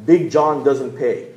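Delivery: slow, heavy mock-tough voice; lightly voiced hulking tough guy; slow menacing giant. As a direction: drag out each word like a bully. Menacing giant's toll-free line.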